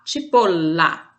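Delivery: slow "cipolla", tongue held on the L then released on "la"; double L shown. Shown as a demonstration. Teacher showing how the tongue moves, long double L in "cipolla". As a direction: hold the L of "cipolla", then drop into "la". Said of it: "nós vamos enrolar a língua".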